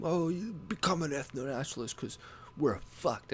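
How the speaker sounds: lightly hammed-up doomsayer whine; mock doom and gloom. Imitating alt-right doomsayers, mock gloomy. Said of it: "just doom and gloom".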